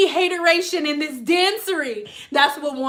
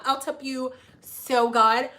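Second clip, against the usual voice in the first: put-on coaxing old lady; 4 semitones lower, slower than usual. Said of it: "they would be like".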